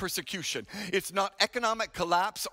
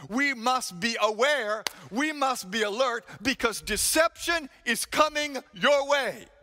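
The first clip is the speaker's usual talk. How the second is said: urgent warning; 4 semitones higher than usual. Acted. Preacher's urgent warning builds.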